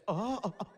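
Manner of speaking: exaggerated scared gasps; anime gasp. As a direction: gasp in staggered mock shock. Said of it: "I even hit that anime gas".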